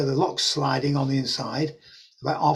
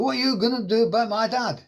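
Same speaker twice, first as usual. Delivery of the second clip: higher put-on Welsh accent at normal loudness; broad Welsh accent; 8 semitones higher than usual. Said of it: "on a really broad Welsh accent".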